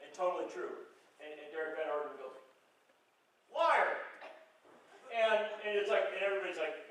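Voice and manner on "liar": loud, higher mock yell of an accusation; heckler's shout. A congressman heckles the president during the speech, shouted. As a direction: bark it out like a heckler.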